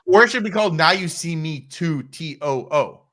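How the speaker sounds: high, loud, laughing through it; laughing pun. Real, not acted. Co-host proposing a sequel title, laughing loud. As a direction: crack up at own joke.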